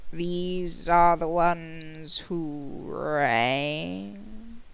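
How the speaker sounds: extremely drawn-out, ponderous servant announcement; very slow formal servant voice. Acted. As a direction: announce the visitors with every word stretched out. Servant announces visitors to masters.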